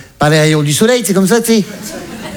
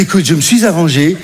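lower, fading captain; lightly voiced captain, lower; captain's voice; 3 semitones lower than usual. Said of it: "Il m'a dit".

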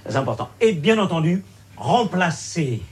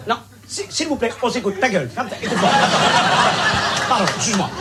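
rising, louder frantic pleading over a rowdy room; flustered pleading; 6 semitones higher, 4 dB louder, faster than usual. Acted. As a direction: keep cutting in, more and more desperate. Mediator losing control of room.

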